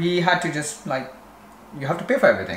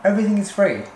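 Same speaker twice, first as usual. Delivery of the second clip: mock jealous; 6 semitones higher than usual. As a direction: tease her about having it all free. Teasing partner about free services.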